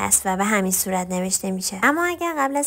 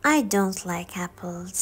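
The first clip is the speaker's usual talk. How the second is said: very slow, each word laid out for learners; slow teaching demo; slow model sentence; 3 dB quieter, much slower than usual. Shown as a demonstration. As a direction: spell it out slowly for the class.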